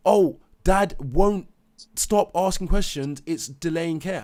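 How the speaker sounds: mock nurse complaining slowly; mocking staff voice.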